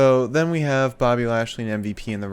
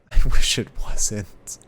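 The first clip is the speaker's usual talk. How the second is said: mock sorrow; 7 dB louder, slower than usual. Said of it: "He says".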